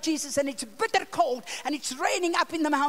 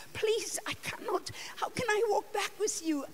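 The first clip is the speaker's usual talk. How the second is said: pleading refusal; 6 semitones higher, 6 dB quieter than usual. Retold or imitated. Refusing the tribesmen's request.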